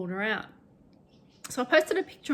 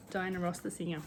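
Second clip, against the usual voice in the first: softly repeated, deadpan; quiet deadpan echo; 3 semitones lower, 6 dB quieter than usual. Shown as a demonstration. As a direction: echo it under your breath. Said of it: "meet Diana".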